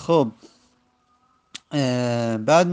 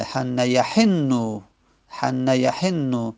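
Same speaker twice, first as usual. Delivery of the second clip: slow recitation; much slower than usual. Shown as a demonstration. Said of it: "فعل مضاعف لازم".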